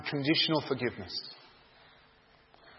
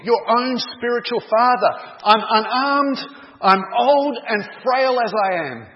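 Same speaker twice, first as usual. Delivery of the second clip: put-on much higher and louder, an old man calling after his son; desperate pleading cry; 9 semitones higher, 7 dB louder than usual. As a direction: cry out after a fleeing son, begging him to stop. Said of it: "he cried out as he ran after".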